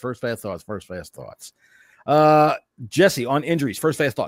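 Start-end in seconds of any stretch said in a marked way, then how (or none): 0.0-1.5 fast, very hushed, rapid repeated delivery. Trying a tongue twister quickly, as asked: saying it fast. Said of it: "Try it three times fast".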